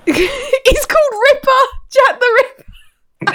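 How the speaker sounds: high, slow spooky billing; dramatic horror announcement. Acted. Laughing dramatic horror name.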